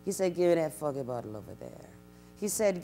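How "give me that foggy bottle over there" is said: lower, quieter slowed-down take; slowed-down demo of the Gullah line; slower demo. Shown as a demonstration. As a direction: say it slowly for clarity. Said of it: "I'll simply say it a little slower".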